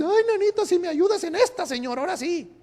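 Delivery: mock pleading. Mock desperate plea to God.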